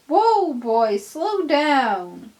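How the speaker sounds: high, loud warning cry; urgent shout. Acted. Driver yelling at the speeding engine to slow down. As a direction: yell to make him slow.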